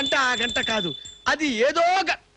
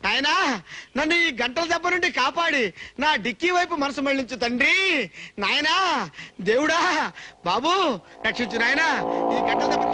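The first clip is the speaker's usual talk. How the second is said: hammed-up pleading prayer, slightly raised; comic prayer. Man begging God to save him from the bells, comic wailing prayer. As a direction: beg heaven like a desperate devotee, half-crying.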